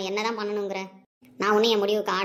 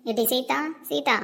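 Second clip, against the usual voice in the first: calling out; 3 semitones higher, slower than usual. Acted. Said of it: "இப்ப எதுக்கு காலையில கத்திட்டு இருக்க".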